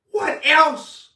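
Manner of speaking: pointed question. Acted. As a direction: throw it back at them, up.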